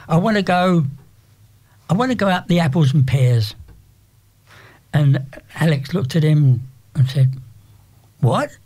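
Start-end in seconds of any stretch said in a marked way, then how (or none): 0.1-3.5 put-on cockney accent. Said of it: "he was a bit of a cockney". 8.2-8.5 puzzled what. Retold or imitated. Girl puzzled by slang.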